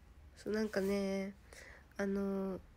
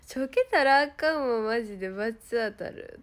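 retold warning; 5 dB louder than usual. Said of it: "とか言っ".

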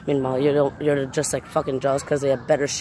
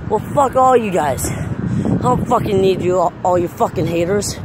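angry, slow rant; 4 semitones higher than usual. Real, not acted. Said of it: "I don't care if I'm talking like this".

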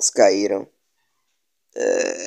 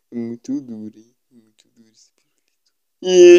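whisper; 2 semitones lower, 5 dB louder than usual. Real, not acted. Joke whispered aside.

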